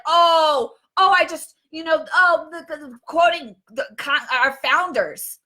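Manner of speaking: flustered mock stammer, slowing to a drag at the end; lightly voiced fumbling politician, trailing off; mocking Nancy. Vlogger mocking a politician quoting the founders, lightly flustered stammer. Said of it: "I love it how Nancy's like".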